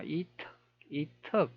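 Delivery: 이척 tried softly, clipped into two short syllables; trial pronunciation. Shown as a demonstration. Presenter checking an odd-sounding name, soft trial pronunciation. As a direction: softly test 이척 twice, as if to oneself. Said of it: "이렇게".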